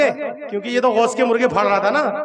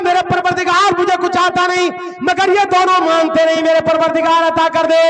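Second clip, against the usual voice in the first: higher, louder plea to God; loud prayer; 5 semitones higher, 4 dB louder than usual. Retold or imitated. Simple man loudly begging God for food. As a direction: cry out to the Lord.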